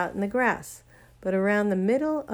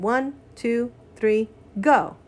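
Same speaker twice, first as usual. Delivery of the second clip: calling out; 3 semitones higher, 5 dB louder, slower than usual. Acted. Counting before the jump.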